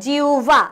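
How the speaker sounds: "জিউভা" as jiu-bha, হ turned into u; correct pronunciation. Shown as a demonstration. Teacher introduces the next word, "জিউভা" pronounced jiu-bha. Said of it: "জিউভার উচ্চারণটা কেমন হবে".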